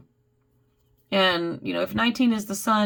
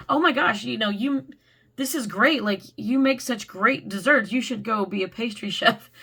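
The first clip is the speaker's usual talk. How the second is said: excited friend. Retold or imitated. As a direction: gush like a proud friend. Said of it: "they're like".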